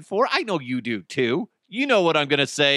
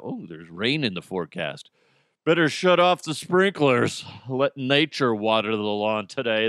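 excited adult; 4 semitones lower than usual. Retold or imitated. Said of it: "adults get excited about".

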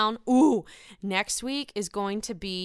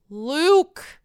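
a sudden, louder cry of his name; excited call; 5 semitones higher, 6 dB louder, much slower than usual. Real, not acted. Calling out excitedly.

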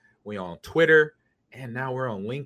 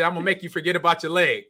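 lightly imitated, quick higher threat; Major Payne; 4 semitones higher, 3 dB louder, faster than usual. Host quotes movie officer distracting the injured, lightly acted quick threat. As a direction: rattle off the film officer's line. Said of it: "He said".

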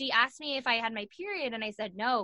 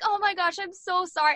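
much higher, louder gushing sympathy; sympathetic cellmate; 8 semitones higher, 5 dB louder than usual. Retold or imitated. Heroin addict gushes sympathy at the cheerleader, high and loud. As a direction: pour out pity like a kind cellmate.

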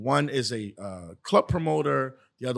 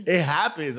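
laughing; slower than usual. Real, not acted. Laughing while admitting.

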